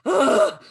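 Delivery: loud high sigh of relief; relieved groan. Retold or imitated. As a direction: let out a big relieved ugh. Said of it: "be like".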